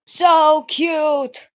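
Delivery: high, loud squeal of delight; gushing. Real, not acted. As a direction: gush over it. Gushing over cupcakes.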